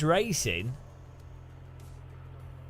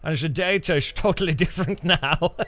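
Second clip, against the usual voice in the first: put-on Dutch accent. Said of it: "That's my Dutch".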